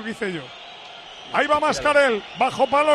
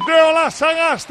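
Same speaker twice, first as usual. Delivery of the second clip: goal shout; 2 semitones higher than usual. Real, not acted. Goal scored.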